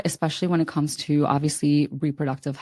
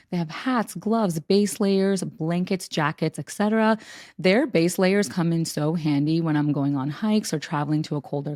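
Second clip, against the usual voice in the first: softer, friendly sponsor pitch; host ad read; 5 dB quieter than usual. Acted. Co-host pitching thermal clothing to listeners, host ad read. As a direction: read the ad copy smoothly, a little softly.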